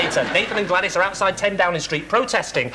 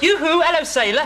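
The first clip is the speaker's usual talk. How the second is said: camp flirt; 5 semitones higher than usual. Retold or imitated. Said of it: "he goes".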